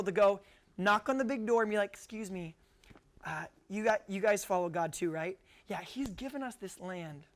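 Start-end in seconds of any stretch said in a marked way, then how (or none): 1.9-7.3 soft, hesitant mock apology; awkward politeness. Israelites at Jericho's door, awkwardly claiming the land. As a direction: tiptoe into an embarrassing request, quietly and haltingly. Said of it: "I know, awkward".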